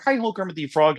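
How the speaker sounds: a light nasal Kermit; Kermit the Frog. Retold or imitated. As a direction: chirp it like the frog. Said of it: "it's taking Kermit the Frog".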